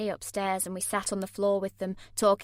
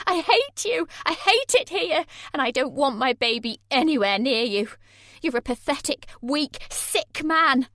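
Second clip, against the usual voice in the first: much higher, louder, slowing on "weak, sick man"; screaming hatred; 6 semitones higher, 7 dB louder than usual. A narrator's reading. Heroine screaming at Jay.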